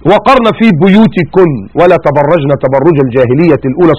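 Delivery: slow chanted verse recitation; Quran recitation. Acted. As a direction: recite it slowly like tajweed. (تلاوة قرآنية بطيئة)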